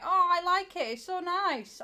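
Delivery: high, loud, excited gush; re-enacted burst of delight. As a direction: gush with delight, pitched well up. Acts out own delight at hair.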